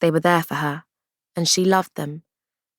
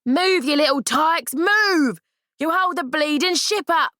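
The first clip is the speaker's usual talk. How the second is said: higher, louder bellowing order; booming shout; 11 semitones higher than usual. Acted. Crewman hurries the children aboard, booming shout. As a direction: bark them up the corridor. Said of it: "the loud, booming voice".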